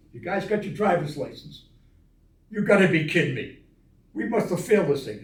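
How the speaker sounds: can't believe they passed; incredulous. Retold or imitated. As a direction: sailors stunned to have passed, loud. Stunned at passing the test.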